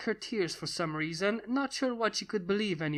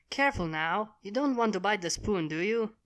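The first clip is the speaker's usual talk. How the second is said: caring. Acted. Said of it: "said Twilight in a caring voice".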